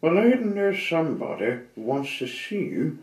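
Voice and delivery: high, loud cheery goblin hello; squeaky goblin greeting; little goblin. Acted. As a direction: call out like a tiny chirpy goblin. Goblin voice in story.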